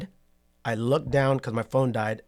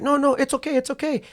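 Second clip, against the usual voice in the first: put-on higher-pitched Asian-accented voice, reassuring; imitating an Asian accent; 13 semitones higher than usual. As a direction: mimic the Asian driver's accent, light and easy. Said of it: "it's just the way I'm telling the story".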